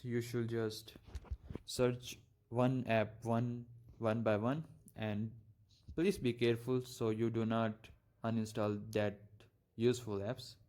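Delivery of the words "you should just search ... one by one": stutter. Real, not acted. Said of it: "I know I'm just stuttering".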